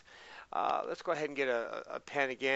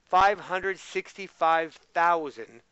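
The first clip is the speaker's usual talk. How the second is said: slow, louder reading out the number; slow emphatic reading; 5 dB louder, slower than usual. Shown as a demonstration. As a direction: read it out slowly and clearly. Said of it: "repeats the number".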